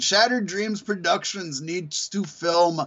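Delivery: slow, drawn-out theatrical delivery; mock-mysterious slow announcement; Goldust reading a tweet. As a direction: stretch each phrase, rising on the last word. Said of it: "Gold Dust, he put out a tweet, said".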